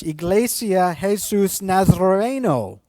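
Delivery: slow Spanish "Iglesia Jesus Nazareno"; Spanish name. Shown as a demonstration. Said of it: "remember the Spanish words".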